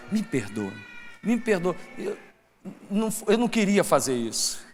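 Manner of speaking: very soft, halting contrition; hushed, as if broken and sorry; humble apology. Acted. Humble person confronted over a wrong, quietly apologetic.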